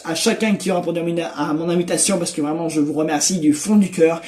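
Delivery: raspy, worn-out voice; talking with a nearly lost, hoarse voice. Real, not acted. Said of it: "Désolé pour ma voix éraillée, j'ai plus de voix".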